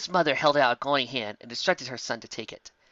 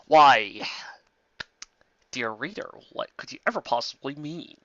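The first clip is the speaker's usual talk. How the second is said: coy tease. Acted. Narrator teasing reader.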